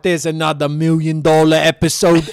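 mock the boss gloating; imitating Wubsy. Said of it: "She could be sitting at her computer going".

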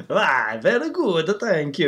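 mock Italian accent. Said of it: "Giovanni, how are you?".

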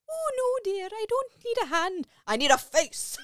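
high, loud granny voice; old lady voice. Retold or imitated. Doubtfire answering the social worker, high old lady. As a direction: play the sweet old lady with a punchline. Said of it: "when she's like".

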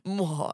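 kiss the microphone; kiss sound. Real, not acted. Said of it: "Kissing the microphone".

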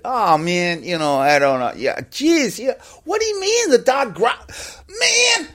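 high, agitated American sputtering; incredulous outburst, pitch climbing steeply; David Fincher. Acted. Director disbelieving the dog growled, high-pitched agitation. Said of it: "he was getting more and more, you know, agitated".

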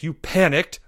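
mild mock roar; understated angry accusation. Leo rounding on Porge, mild roar. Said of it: "Leo roared".

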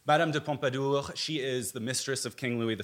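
Madame de Pompadour in a hammy French accent; obnoxious French accent. Shown as a demonstration. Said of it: "you will be hearing my most obnoxious French accent".

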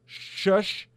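sharp shush to silence the audience. Real, not acted. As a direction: cut them off with a quick hush. Hushing the listeners mid-rant.

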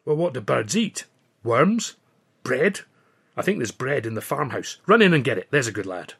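light Scots lilt, bossy; a mild Scottish brogue giving orders; Scottish accent. A narrator's reading. Billy sends the narrator for bread, light Scottish accent.

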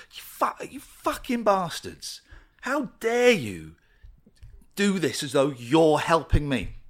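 furious, slow, spat-out insult at the press; angry retort. Retold or imitated. Retold furious reply to the newspaper. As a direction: snarl it at the tabloid that phoned. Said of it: "so I'm getting so angry".

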